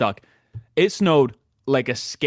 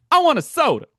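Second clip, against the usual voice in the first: mock old lady demand; 13 semitones higher, 5 dB louder than usual. Seatmate asking snack lady.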